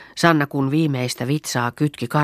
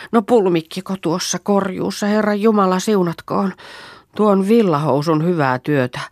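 aghast exclamation; 7 semitones higher, 4 dB louder than usual. Acted. Sanna sees the mauled cow.

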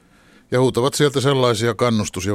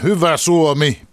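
slow, much higher and louder cheer that falls at the end; shouting over them; 8 semitones higher, 6 dB louder, slower than usual. Retold or imitated. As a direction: drown out the chanting crowd with it. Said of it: "huutaa isoon ääneen".

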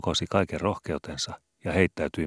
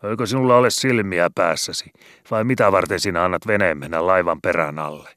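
loud, angry yell at a clumsy crewmate; angry shout; 3 semitones higher, 8 dB louder than usual. A narrator's reading. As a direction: bark it out from the boat. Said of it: "huusi Konstalle".

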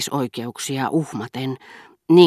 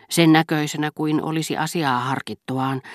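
plain reading voice

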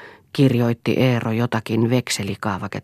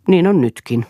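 sharp retort; 6 semitones higher, 6 dB louder than usual. A narrator's reading.

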